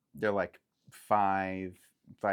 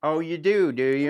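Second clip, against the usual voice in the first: bandit; 8 semitones higher, 12 dB louder than usual. Acted. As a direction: lay down the law like a rough toll-keeper. GM voices a bandit.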